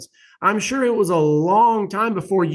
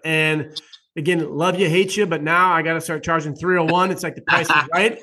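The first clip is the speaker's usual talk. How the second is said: ordinary delivery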